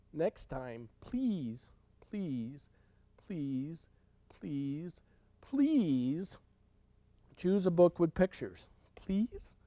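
soft pleading whisper; whispered begging. Real, not acted. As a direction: beg in a hush. Reader begs kids.

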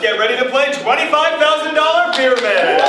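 big booming host intro; game show announcer. Acted. Game show opening call.

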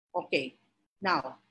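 breathless, pausing for air; winded, catching breath between words. Real, not acted. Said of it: "I'm trying to catch my breath".

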